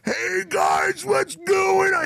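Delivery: high-pitched mock scream, drawn out; imitated drunken screaming. Wasted drummer hailing cops at the gas station, mock screaming. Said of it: "he's fucking screaming on the top of it".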